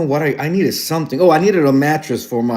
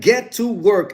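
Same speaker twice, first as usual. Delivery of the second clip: slow, higher-pitched imitation of an order; quoted command; 5 semitones higher than usual. Passing mother's order on to viewers, imitated slow command. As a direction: repeat the order slowly for effect.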